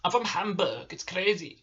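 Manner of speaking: casual mock German accent. Shown as a demonstration. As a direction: play a Hamburg local with a German accent. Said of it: "sort of a German accent".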